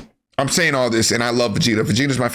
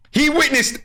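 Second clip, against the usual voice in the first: high incredulous; 12 semitones higher than usual. Real, not acted. Incredulous emphasis.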